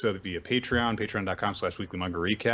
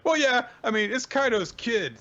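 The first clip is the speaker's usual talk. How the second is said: character voice; 14 semitones higher, 4 dB louder than usual. Retold or imitated. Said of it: "It's like".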